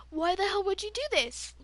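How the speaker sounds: indignant demand, re-enacting the phone call; retold screaming. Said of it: "I'm screaming into the phone".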